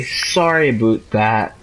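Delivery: put-on slow Canadian-accented apology; Canadian "sorry". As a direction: draw out "Sorry about that" the Canadian way. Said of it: "Why do you say it like that?".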